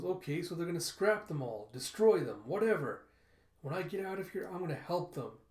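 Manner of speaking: worked-up, defiant insistence; exasperated retort. Acted. Boy argues back after being corrected.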